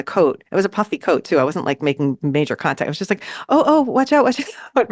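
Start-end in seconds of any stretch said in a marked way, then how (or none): 3.5-4.9 mild high-pitched warning, acted out; a quick, light mock alarm; retold warning. Warning a tourist away from the drone, mildly urgent and high.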